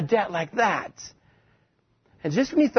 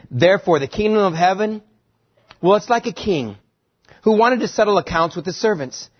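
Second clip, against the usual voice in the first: scripture reading; 2 semitones higher than usual. Acted.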